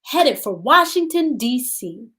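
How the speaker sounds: put-on gentle read-aloud for young children; storybook reading. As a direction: read the story to the class, unhurried. Teacher reads picture book aloud.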